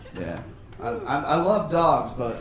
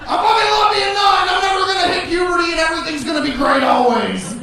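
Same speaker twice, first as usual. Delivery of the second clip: put-on excited kid; 11 semitones higher, 6 dB louder than usual. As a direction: shout like a thrilled nine-year-old. Ecstatic kid after church.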